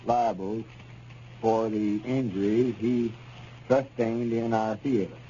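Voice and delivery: slow, deliberate reading of a legal document; reading aloud. Acted. Lum reading the signed agreement to Abner, in a slow deliberate reading voice. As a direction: spell out each clause carefully as if reading it aloud.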